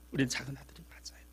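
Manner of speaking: quick unvoiced whisper; hushed quick confession. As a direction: lean in and whisper the admission. Confiding aside to congregation.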